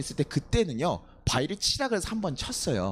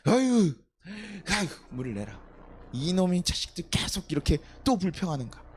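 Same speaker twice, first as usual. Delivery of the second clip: acted unresolved anger. Moses still fuming at the rock, acted exasperated grumbling. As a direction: vent leftover irritation at the complainers. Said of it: "화가 안 풀린 거예요".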